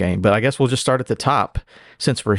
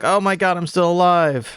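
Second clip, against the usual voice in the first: mock cut-in-half fish; 7 semitones higher than usual. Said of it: "and he's like".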